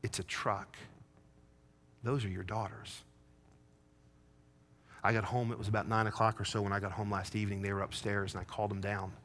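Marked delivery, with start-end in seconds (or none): 0.0-3.0 soft, hushed, far-off echo of wife; words replaying in his head. Wife's rebuke echoing in his mind, hushed. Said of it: "those words just on my mind".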